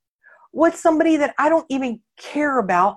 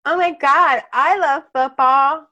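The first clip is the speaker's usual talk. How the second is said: gasping, higher, louder, drawn-out fake delight; mock gushing; 6 semitones higher, 5 dB louder, slower than usual. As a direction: overdo the fake enthusiasm to win the guy.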